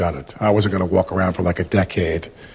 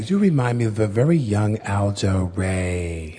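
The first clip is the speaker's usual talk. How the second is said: imitating Fred; slower than usual. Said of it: "'Cause my voice is kind of raspy".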